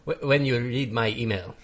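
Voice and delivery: put-on German accent; mock German accent. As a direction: imitate a German letter-writer. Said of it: "imitate my German accent".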